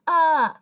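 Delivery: "uh" as the short U in sub; short U sound. Shown as a demonstration. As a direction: say "uh" loudly as an isolated short-U vowel. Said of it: "Those are the short vowel sounds".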